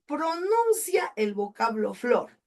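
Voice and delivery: slow, each word weighed: "pronuncia el vocablo flor"; slow, careful reading for the class; slow emphatic reading. Shown as a demonstration. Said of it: "Dice aquí".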